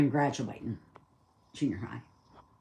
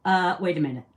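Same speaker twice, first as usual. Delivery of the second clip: put-on excited kid; 5 semitones higher, 9 dB louder than usual. Kid realizing it is him.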